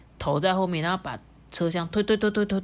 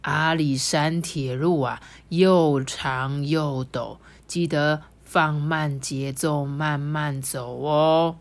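gentle reminder; 3 semitones lower, much slower than usual. Acted. Grandpa engine gently warning the young engine, slow and calm. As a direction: ease him into slowing down. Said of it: "特别提醒他说".

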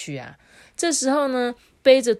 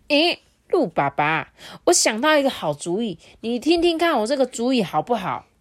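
high, bright-eyed bunny voice cutting in; eager little rabbit; 5 semitones higher, 5 dB louder than usual. A narrator's reading. Little rabbit interrupting deer father with an idea, high and eager. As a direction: pipe up like an excited little rabbit. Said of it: "插嘴说".

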